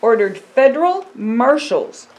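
slow, earnest picture-book reading; storybook voice for a child. Acted. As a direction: tell it gently to a young listener.

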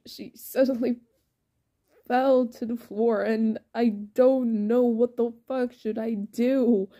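mildly frantic, rushing on without a break; panicked. Acted. Ray tells Norman she fell, panicked. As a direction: let a touch of panic build as you explain.

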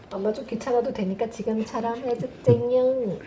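cute lisp, 해줬쟁용 not 해줬잖아요; slushy sh for s. Real, not acted. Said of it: "혀 짧은 소리를 해요".

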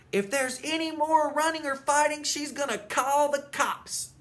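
high, loud announcement, the end slowed; shouted rules. Acted. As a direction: call the new rules out across the yard. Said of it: "shouted out brand new rules".

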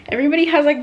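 ordinary talk

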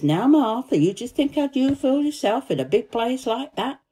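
a hint of a coaxing mother; mother's voice, lifted a little; voicing Martha's mother. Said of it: "And she says".

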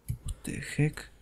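slow unvoiced puzzled whisper; whispered what the heck. Real, not acted. To himself after the odd scene, slow whisper. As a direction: breathe it out baffled, slowly. Confused by strange event.

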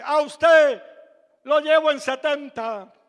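loud sudden call of a taxi driver; retold taxi driver calling out loud; driver's shout. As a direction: bark the offer out to the passenger. Taxi driver answers the fare.

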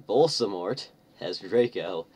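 moderately loud narrated shout. A narrator's reading. Students telling the headmaster Draco is captured, shouted. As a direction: raise the voice to report it urgently. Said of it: "we shouted at the same time".

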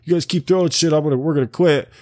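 angry singer. Retold or imitated. Singer warning the crowd to stop throwing, mock angry. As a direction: play a singer fed up with the crowd. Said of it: "He's like".

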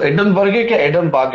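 "एडनबर्ग" tried with a sounded g, then with it dropped; pronunciation check. Shown as a demonstration. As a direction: ask which way "एडनबर्ग" is said, ending sounded or silent. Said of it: "लेकिन वो silent होता है ना".

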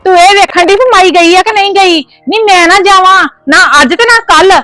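high-pitched furious berating; mother-in-law rails at her daughter through the gate; angry scolding. Acted. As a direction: tear into her, voice climbing.

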